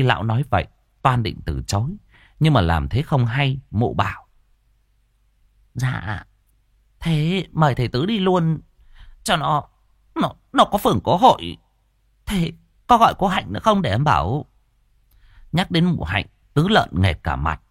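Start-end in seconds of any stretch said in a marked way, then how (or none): 5.7-14.5 polite invitation. Acted. Hòa voiced, polite.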